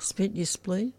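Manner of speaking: whispered, unsure of the phrase; barely voiced, half to herself. Real, not acted. Co-host unsure of the phrase, in a whisper.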